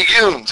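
"yoons" with a long oo, one syllable; North Carolina yoons. Shown as a demonstration. Attempting the Murphy plural you, "yoons" with long oo. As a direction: say "yoons" as YOONZ. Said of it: "I'm gonna not pronounce it right probably".

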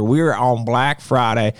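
slow redneck drawl; redneck accent. Real, not acted. Host stressing the sale starts on Black Friday, redneck accent. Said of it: "I just went total redneck on you".

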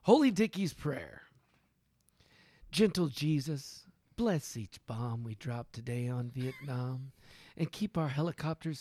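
measured prayer recital, phrase by phrase with pauses; mock prayer reading. Man reading a satirical war prayer to friends, solemn recital. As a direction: intone it like grace from a pulpit. Reads a prayer poem aloud.

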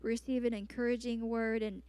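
ordinary talk

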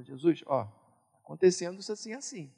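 soft, private words to Jesus; a husband telling Jesus his troubles, hushed; hushed prayer. Retold or imitated. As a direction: murmur it like a quiet prayer. Eu falo.

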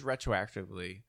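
"retroactively" with a W slipped in for the R; tongue-slip W in the middle of "retroactively". Real, not acted. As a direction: say "retroactively" as "retwoactively". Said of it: "throw a W in".

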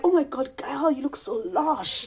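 high, slow, hushed self-praise; admiring myself. Retold or imitated. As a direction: gush at your own reflection. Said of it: "I'm like".

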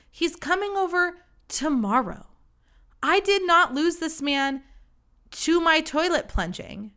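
high, emphatic astonishment; incredulous outburst. Real, not acted. Telling listeners he still wants to come over, incredulous triumph. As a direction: hammer out each point in amazed disbelief. Incredulous climax of embarrassing story.

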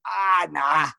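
put-on cabbie with a thick Boston accent; dropped-R Boston cabbie talk; imitated Boston accent. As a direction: mimic a Boston cab driver.

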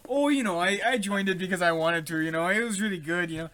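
imitating a Midwestern, Minnesotan trooper; chatty Minnesotan accent put on for a quote. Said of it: "like, Midwestern kind of Minnesotan".

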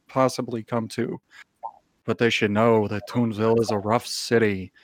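grand, dramatic announcer voice as a pigeon; pigeon narrator voice. Acted. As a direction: narrate the city like a movie trailer.

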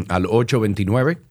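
throat needs clearing; frog in throat. Real, not acted. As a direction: talk through a frog in the throat. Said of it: "No sé qué le pasa a mi gar-, garganta".

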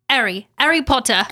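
dropped-H English accent. Shown as a demonstration. Host showing her trigger phrase for an English accent, English accent. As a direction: put on a quick English accent. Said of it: "speak in an English accent".

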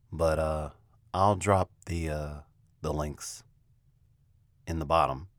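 halting, with awkward pauses; hesitant, stop-start delivery; slow and awkward. Real, not acted. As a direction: feel your way through it, awkwardly. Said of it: "talking real slow because I feel kinda awkward".

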